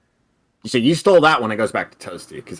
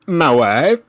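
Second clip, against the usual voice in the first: higher, louder foreign-accented My wife; Borat accent; 5 semitones higher, 5 dB louder than usual. Shown as a demonstration. Host giving the quiz clue, louder accented delivery. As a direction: lean into the comic accent on My wife. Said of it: "here's the inflected quote".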